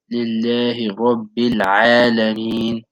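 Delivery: "Lillahi Rabbil Alameen" slowly, with the ayn from a compressed throat; slow recitation. Shown as a demonstration. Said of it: "you compress your throat again".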